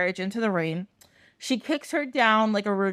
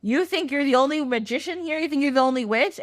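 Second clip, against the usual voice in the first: lightly acted witch taunt, pitched up; cackling witch; 4 semitones higher, faster than usual. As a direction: challenge a rival like a mock villain. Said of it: "Frida's cackling, and she's like".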